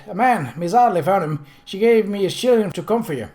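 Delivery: put-on high, loud young boy voice; eager child correcting; excited boy. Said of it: "the boy said".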